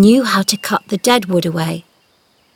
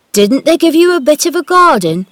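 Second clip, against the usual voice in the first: surprised question; 8 semitones higher, 7 dB louder than usual. Acted. Dickon asks, surprised.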